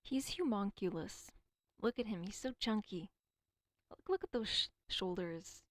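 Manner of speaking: excited gushing. Real, not acted. Gushing over a chunky man.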